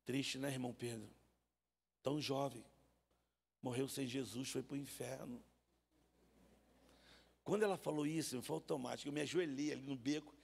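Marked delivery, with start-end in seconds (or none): 0.0-5.4 pious sad lament. Retold or imitated. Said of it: "E ela disse pra mim assim".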